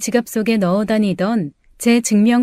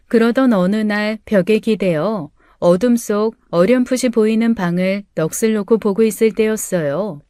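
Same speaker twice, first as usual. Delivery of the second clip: plain reading voice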